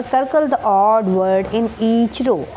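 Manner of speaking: in each row stretched out very slowly; very slow reading. Shown as a demonstration. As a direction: read it out word by word. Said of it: "teacher reads instruction". (बहुत धीमे पढ़ना)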